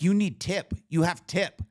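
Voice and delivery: high, loud clipped broken English; mock masseuse voice. Masseuse demanding a tip from the mom, high mock accent. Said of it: "she's like".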